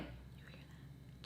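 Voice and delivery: very soft, slow whisper; secretive whisper. Retold or imitated. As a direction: whisper it slowly to your friend. Whispering to the friend just woken.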